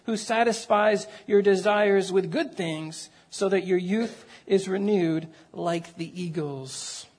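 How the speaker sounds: measured, reverent psalm reading; solemn public Bible reading; scripture reading. Acted. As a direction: read the psalm aloud with deliberate phrasing, easing down at the close. Reads a psalm aloud to congregation.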